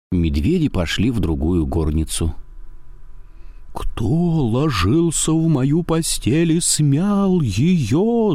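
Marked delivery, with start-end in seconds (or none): 3.7-8.3 slow, high roar; growling bear. A narrator's reading. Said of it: "заревел Михаил Иванович страшным голосом".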